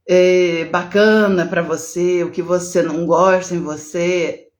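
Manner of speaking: usual speaking voice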